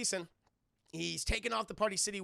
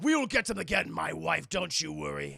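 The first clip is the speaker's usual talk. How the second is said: Shao Kahn; 5 dB louder than usual. Retold or imitated. Shao Kahn answers his wife.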